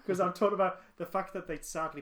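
laughing apologetically. Real, not acted. Podcaster apologising for giggling about late actors, laughing. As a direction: apologise while trying to stop laughing. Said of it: "That's not why I'm laughing".

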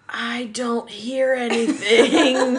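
slow, laughing fake innocence; playing dumb. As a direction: pretend not to hear, slowly. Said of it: "And I'll be like".

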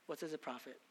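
hushed repeat. Acted. Whispered closing repeat.

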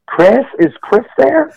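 mock call from beyond the porch. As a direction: call the name into the dark from outside. Voice calling from outside porch.

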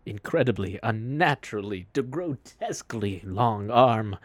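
drawn-out, dramatic adjectives; a touch of portentous character voice; lightly voiced formal storyteller. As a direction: savour each word of the horror, deliberately. Character describes the thief's arm.

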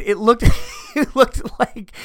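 high, loud words through laughter; laughing while talking. Real, not acted. Comic cracking up at his dog story, really laughing. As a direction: lose it mid-sentence.

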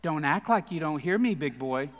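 a light mock-sweet tease; sweeter voice. Pastor teasing his friend through the stall door, mock-sweet. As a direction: coax him lightly, hammed-up flirt. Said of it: "in a little bit sweeter voice".

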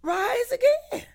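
loud, emphatic declaration of scripture; forceful proclamation. Acted. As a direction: preach it out loud with weighty pauses. Preacher proclaims Jesus' words to Martha.

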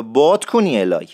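long, leaned-on vowel in باد; drawn-out vowel. Shown as a demonstration. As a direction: stretch باد at the start. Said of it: "این آی بادو حتماً بکشین".

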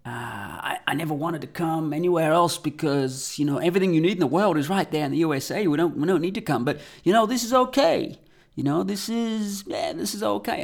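high-pitched imitation American accent; attempted American accent. American tourist explaining why he never travels, in an attempted American accent. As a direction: play the American tourist, pitched well above your own voice. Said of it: "my attempt at an American accent".

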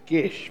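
"gish" for cash, with a short i vowel; Italian-Australian family pronunciation. Shown as a demonstration. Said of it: "Or as we would say".

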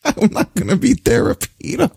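high indignant rant, laughing; Gargano rant. Retold or imitated. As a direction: squeak it out like an offended wrestler. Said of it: "Every Gargano segment".

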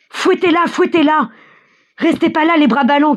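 high, urgent repeated urging; crowd shouting. A narrator's reading. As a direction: egg them on in a high cry. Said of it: "crie-t-on dans la foule". (cris pressants, voix haute)

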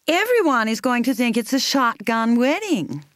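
a worried mother grumbling the line, lightly voiced; lightly voiced anxious mother; mother muttering. A narrator's reading. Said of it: "she kept muttering".

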